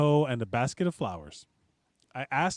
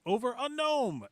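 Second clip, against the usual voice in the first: mock outrage; 10 semitones higher than usual. Reading post with exclamation point.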